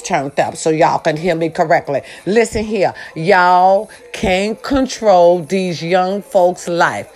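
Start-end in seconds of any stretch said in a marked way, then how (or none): 3.1-7.1 slow emphatic. Shown as a demonstration. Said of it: "One more time".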